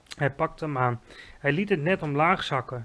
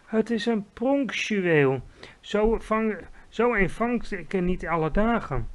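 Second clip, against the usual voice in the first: higher, emphatic delight; excited exclamation; 5 semitones higher, 3 dB louder than usual. A narrator's reading. Giant boasting of his dream to Sophie, excited exclamation. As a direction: revel in the rare catch. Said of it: "riep hij".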